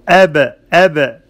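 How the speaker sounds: أب with a bouncing echo on the ba; أب with a sharp released ba; ba with qalqala. Shown as a demonstration. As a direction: clip and bounce the ba in أب. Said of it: "قلقلة in the ba".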